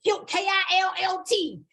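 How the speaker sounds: killed spelled out letter by letter, K I L L T. Shown as a demonstration. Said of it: "With a T".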